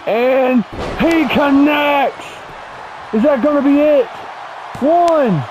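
rising, urgent near-fall call; excited play-by-play. Acted. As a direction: build the hype on the count. Near-fall during match call.

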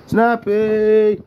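long call across the tank. Real, not acted. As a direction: call her name out to lure her. Calling turtle out of hiding.

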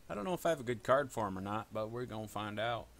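Appalachian twang slipping into speech; hillbilly accent. Real, not acted. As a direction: talk like a hillbilly. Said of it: "Why am I talking like a hillbilly?".

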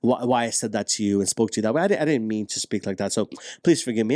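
mean every word of the sorry; mock-sincere spouse apologizing; sincere apology. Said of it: "They're like".

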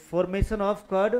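words drawn out very slowly for note-taking; slow dictation. Shown as a demonstration. Teacher dictating an example to the class, very slow. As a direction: spell it out slowly so the class can write.

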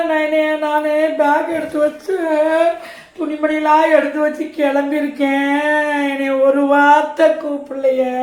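mock wailing with stretched word endings; tearful lament. Woman laments not being invited to the engagement, mock tearful. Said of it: "இப்படி அழுதுகிட்டு உட்காந்துருக்கீங்க".

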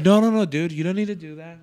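loud, laughing no no no; amused, embarrassed objection; laughing protest. Retold or imitated. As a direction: wave him off while cracking up.

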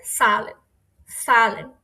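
"সালেন" with no h, just a long a; silent h. Shown as a demonstration. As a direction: model "সালেন" as "saa-len", h left out. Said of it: "হায়ের উচ্চারণ হবে না".

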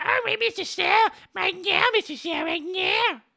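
a high, begging fan voice pleading with Mister Sal; pleading parody voice. Acted. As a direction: whine it up high like a desperate fan. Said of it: "the Nicky Town scene".

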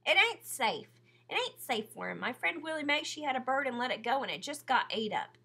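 a hint of a scared boy's plea; anxious boy warning; pleading boy. A narrator's reading. Rob pleading against freeing.

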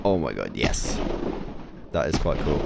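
very low, soft murmur; hushed awe. Real, not acted. Player watches the building begin to go, hushed and low.

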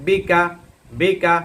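বিকা clipped short and quick, no stretch; said very quickly. Shown as a demonstration. Teacher drilling pupils to read বিকা quickly. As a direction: rattle off বিকা fast with short vowels. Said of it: "খুব তাড়াতাড়ি".

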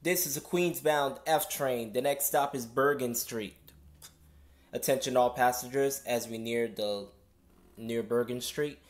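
conductor reading notices over PA; steady announcer drone through a speaker; subway announcement. Real, not acted. Conductor service change announcement.

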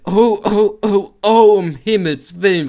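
high, loud shrieking truck voices; squealing goods wagons in a panic; screeching trucks. A narrator's reading. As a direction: shriek like panicked freight cars. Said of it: "rumpeln sie aufeinander und kreischen".

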